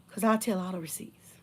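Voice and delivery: hushed, breathy warning; whispered threat. Real, not acted. To the ex who sent folk over, whispered threat.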